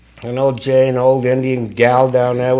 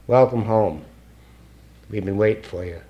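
welcoming; 4 semitones lower, 6 dB quieter than usual. Retold or imitated. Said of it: "this is what he says to me".

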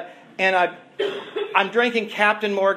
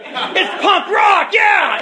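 higher, louder excited cheer; crowd cheer; 9 semitones higher, 5 dB louder, much slower than usual. Retold or imitated. People in the back cheering him on, excited shout. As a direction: whoop it like a fan in the back.

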